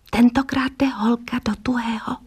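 breathless whisper to the mirror. A narrator's reading. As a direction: whisper it to yourself. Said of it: "zašeptala". (šeptem do zrcadla)

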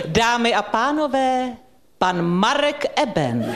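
slow, formal announcement of the host; grand announcer voice. Pretend. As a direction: announce him like a gala evening opener, drawn out. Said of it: "poprosil bych s tou dikcí". (slavnostní hlasatelka, pomalu a vznešeně)

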